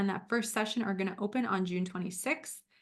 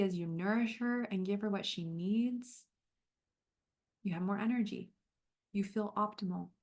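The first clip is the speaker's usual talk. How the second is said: gentle, unhurried guiding voice; calm coach leading a visualization; guided visualization. Acted. Leads a visualization.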